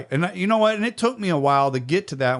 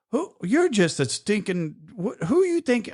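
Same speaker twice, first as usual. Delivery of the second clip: inner angry rant; 7 semitones higher than usual. Retold or imitated. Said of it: "I'm just angry".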